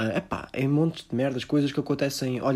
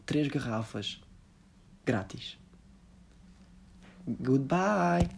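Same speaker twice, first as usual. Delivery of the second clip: parody influencer sponsor plug; slower than usual. Pretend. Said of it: "influencers de sopa".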